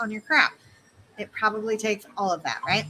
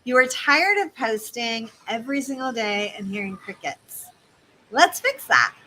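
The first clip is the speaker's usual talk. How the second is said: understanding, upbeat close on fix; reassuring coach; empathetic. Shown as a demonstration. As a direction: sound like you get them, then lift. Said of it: "the better version of that is".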